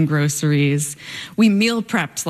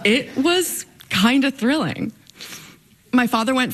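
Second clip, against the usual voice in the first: laughing; 7 semitones higher than usual. Real, not acted. Laughs at family competition.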